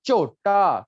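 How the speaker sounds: teacher modelling चोटा loudly; model word. Shown as a demonstration. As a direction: clear model चोटा for students. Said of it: "क्या बोलेंगे इसको?".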